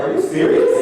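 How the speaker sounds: squeaky high disbelief; high-pitched retold shock. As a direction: jump way up in pitch, stunned. Shocked reply to salary news.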